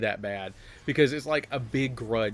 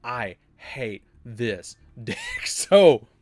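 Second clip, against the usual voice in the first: laughing complaint; 4 dB louder, much slower than usual. Retold or imitated. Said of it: "And I was like".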